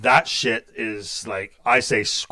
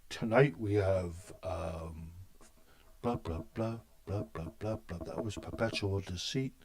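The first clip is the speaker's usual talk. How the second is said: mock scripted announcer; 6 semitones lower, 16 dB quieter than usual. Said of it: "I should come on and just read shit scripted".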